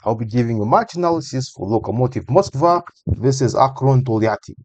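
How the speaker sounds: attempted Russian accent on team names; light try at a Russian accent. Shown as a demonstration. Analyst introducing Russian football teams, trying a Russian accent. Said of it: "how was the Russian accent".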